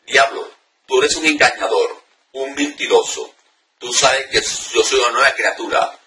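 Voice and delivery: a touch of command in the prayer; firm authority. Shown as a demonstration. Preacher modelling spiritual warfare prayer with authority. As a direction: rebuke the devil with firm conviction. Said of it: "con firmeza lo que diga usted".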